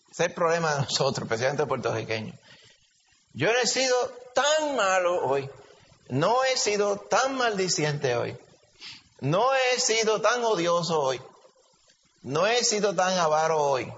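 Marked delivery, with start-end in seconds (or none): 3.3-13.9 higher, slow, pleased-with-himself listing; self-righteous boasting. Retold or imitated. Believer boasting to himself of his good day, lightly mock-proud. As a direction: count your small virtues proudly.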